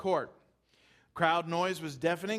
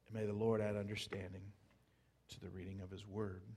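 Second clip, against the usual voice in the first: reading prayer; 9 semitones lower, 11 dB quieter, faster than usual. Real, not acted. Closing prayer over the reading.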